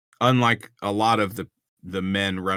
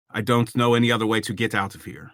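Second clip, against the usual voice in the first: bad French-sounding accent; faster than usual. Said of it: "That's French. That's really bad".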